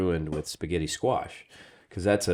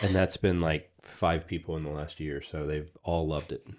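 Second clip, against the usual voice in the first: sarcastic; 3 semitones lower, 5 dB quieter than usual. Real, not acted. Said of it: "I'm just being sarcastic".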